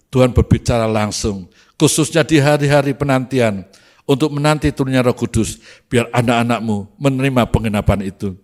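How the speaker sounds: earnest pastor's prayer, steady and projected; measured, declarative praying voice; public prayer. Acted. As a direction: lead the congregation in solemn thanksgiving to God. Leads closing prayer.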